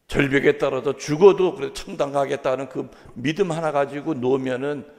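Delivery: ordinary talk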